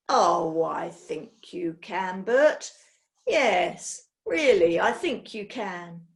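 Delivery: slow, menacing insistence; sinister boss. Acted. Mister Ticker pressing his assistant, slow and sinister.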